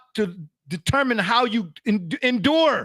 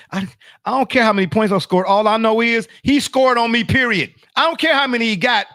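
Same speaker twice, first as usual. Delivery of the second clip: louder, fired-up rant; heated retelling; 2 semitones higher, 4 dB louder than usual. Retold or imitated. Telling a cohost how he hated being scored on, loud. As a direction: get worked up about being beaten.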